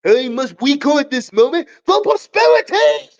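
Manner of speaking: rolled-R Crocker imitation; Denzel Crocker voice. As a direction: proclaim it like a crazed teacher rolling R's. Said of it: "Denzel Crocker who rolls over his R's".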